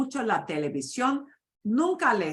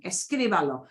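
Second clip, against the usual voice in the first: Escríbalo, leaning on "crí" and leaving "balo" unstressed; stressed syllable shown. Shown as a demonstration. Teacher shows class where the stress stays, Escríbalo stressed on "crí". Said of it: "where you put the stress".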